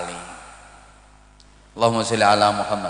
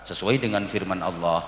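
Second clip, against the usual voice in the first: low, soft, even formal MC voice; solemn master of ceremonies, hushed and low; wedding MC; 6 semitones lower, 6 dB quieter than usual. Acted. MC addressing wedding guests before the couple, solemn and low. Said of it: "kemudian M C-nya ngomong".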